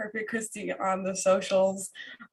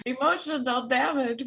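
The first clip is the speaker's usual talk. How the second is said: laughing. Real, not acted. Quoting meme through tears.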